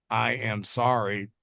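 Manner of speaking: slow, low token apology; grudging kid-style sorry, imitated; insincere apology. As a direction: drag out a sorry you don't mean. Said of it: "when my kids deserve an apology".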